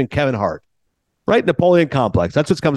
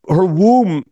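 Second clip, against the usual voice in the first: Tony Montana voice; 5 semitones higher, 4 dB louder than usual. Retold or imitated. Mock Scarface Tony Montana.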